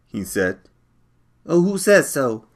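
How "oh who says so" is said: higher, pushy challenge; demanding. A narrator's reading. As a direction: demand an answer from him. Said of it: "I demanded".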